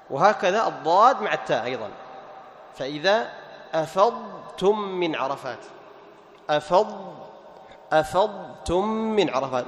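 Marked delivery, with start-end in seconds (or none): 3.7-9.7 أفضتم with ض held apart from ت; careful recitation, unmerged ض in أفضتم; clear Dad before Ta. Shown as a demonstration. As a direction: sound the full Dad in أفضتم, then Ta. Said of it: "تظهر الضاد ثم تأتي".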